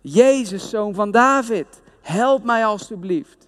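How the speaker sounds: hoger geroepen, gematigde kracht; harder roepen. Retold or imitated. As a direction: smekend uitroepen, ingehouden. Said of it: "maar hij riep nog veel harder". (bedelaar roept hoger en smekend naar Jezus)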